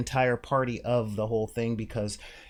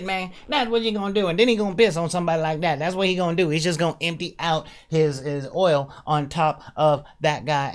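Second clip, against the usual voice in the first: louder, higher mocking imitation of a stereotyped movie character; stereotyped movie sidekick; 6 semitones higher, 6 dB louder than usual. Mocking a Transformers sidekick stereotype, loud and high. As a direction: ham up the cliché sidekick to expose it. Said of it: "all he's doing is talking like this".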